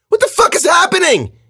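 very high, loud screamed question; panicked shout. A narrator's reading. Girl demands answers from the killer, screaming in panic. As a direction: shout it in frantic bewilderment.

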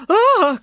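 loud, high yelp of alarm; sudden high cry of fright; startled cry. A narrator's reading. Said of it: "cried Dad".

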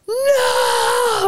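sharp high cry of no; high panicked no; exclaimed no. Retold or imitated. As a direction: blurt out no in panic. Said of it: "And I was like".

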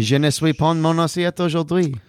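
put-on French accent. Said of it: "that was so smooth".

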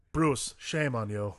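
slow, halting Christopher Walken voice; Walken impression. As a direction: drag it out like Walken. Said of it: "that scene is so".

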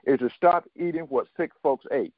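normal talking voice

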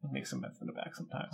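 fast conspiratorial whisper. Pretend. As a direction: whisper it like a secret. Repeats joke, now whispered.

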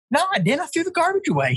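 very high-pitched mock denial; retold protest. Accused of tossing a friend's gear, retold protest. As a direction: protest your innocence in a squeaky-high retelling. Acted quarrel, protesting his innocence.

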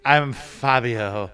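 slightly creepy, slow self-introduction; mock-seductive, unhurried delivery; Fabio. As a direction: draw it out like a would-be heartthrob, lightly put on. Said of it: "That was kind of creepy".

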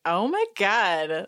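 slow, drawn-out, delighted oh my God; impressed oh my God. Retold or imitated. Host enjoying the diva drama, slow and relishing. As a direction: savour it like he's secretly into it. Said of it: "he says it in a way that's like".

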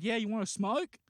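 half-hearted retold yell. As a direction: call it out over a smoky room. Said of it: "they just kept on yelling".

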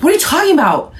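high, puzzled question; confused. Retold or imitated. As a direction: sound baffled. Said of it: "And I was like".

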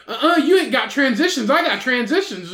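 mock one-upping in a squabble; retold bickering. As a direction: imitate a petty, insistent comeback. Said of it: "back and forth about these glasses".

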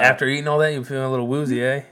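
a light put-on Canadian accent on woozy, eh; mock Canadian. Joking to his co-host after all that Chipotle, mock Canadian accent. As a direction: tease with a hammed-up Canadian eh at the end. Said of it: "Now it's a Canadian watching American football".

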